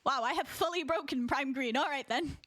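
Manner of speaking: bemused posh British; posh British accent. Pretend. Streamer amazed friend has broken, bemused posh British accent. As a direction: marvel at it in proper British English. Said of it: "posh British accent".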